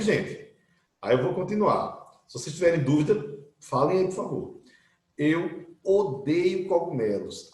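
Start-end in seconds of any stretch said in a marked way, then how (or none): 5.2-7.5 each word drawn out slowly; slow, careful classroom example; slow model sentence. Shown as a demonstration. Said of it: "outra forma de dizer".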